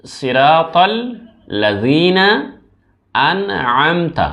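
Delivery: লাযিনা with a thin, light z sound; সিরাতাল লাযিনা আনআমতা, লাযিনা kept thin and light; light pronunciation. Shown as a demonstration. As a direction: say লাযিনা lightly, not heavy. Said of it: "পাতলা করে, একদম হালকা করে".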